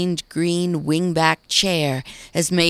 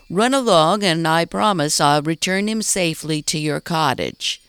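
louder, calling her off kindly; raised voice; 3 dB louder than usual. Acted. Mayor sends Maggie away, voice raised louder. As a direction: send her off with a raised call. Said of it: "he raised his voice".

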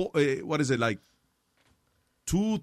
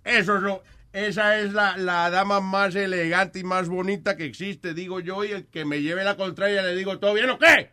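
put-on Colombian accent; 3 semitones higher than usual. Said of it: "el colombiano te saluda".

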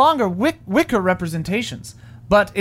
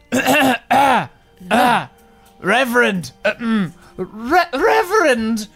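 angel voice; 3 semitones higher, slower than usual. Acted. Angel appears to Reverend.

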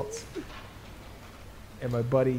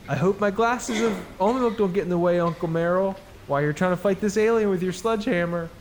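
put-on little girl voice; 5 semitones higher than usual. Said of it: "Bo's like".

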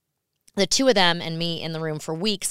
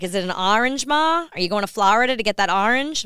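kids mocking mom's New York accent, higher and louder; hammed-up New York accent, pitched up; teasing New York accent; 4 semitones higher, 6 dB louder than usual. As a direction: tease her with an exaggerated New York "orange". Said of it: "My kids are always like".

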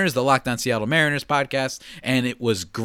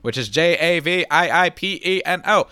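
lightly voiced old radio announcer; a hint of black and white newsreel host; 1930s radio announcer; 2 semitones higher, 3 dB louder than usual. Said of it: "my old-timey nineteen thirties radio announcer black and white voice".

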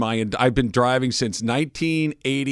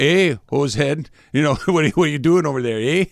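put-on Canadian accent. Host imitating a Canadian chatting, mock Canadian accent. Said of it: "do the Canadian voice again".

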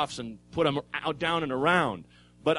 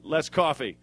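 good cop. Retold or imitated. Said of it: "good cop, bad cop".

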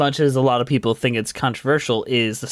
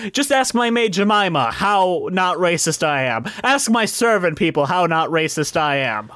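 hammy by-gum lawyer, pitched up; New York lawyer; 6 semitones higher than usual. Retold or imitated. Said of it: "and he's like".

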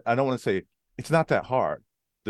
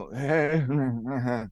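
tongue-tied wordless mumble; Chris Farley; 3 semitones higher than usual. Retold or imitated. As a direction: stammer helplessly through a dry mouth. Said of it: "like that Chris Farley character".

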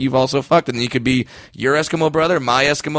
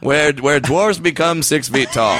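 mock ad slogan; slower than usual. Spoofing the ad slogan.

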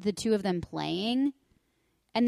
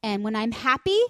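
mock pouty child setting terms; little girl's voice; 5 semitones higher, 7 dB louder than usual. Daughter Iris voiced in story.

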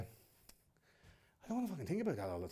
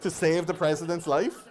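laughing; 7 semitones higher, 10 dB louder, slower than usual. Real, not acted. Laughing rant at the absurd.

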